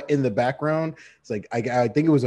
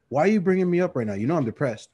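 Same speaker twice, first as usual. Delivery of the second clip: fast, higher mock complaint; whiny friend; 6 semitones higher than usual. Best friend complaining he's depressed, mock whine. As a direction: play the depressed buddy whining.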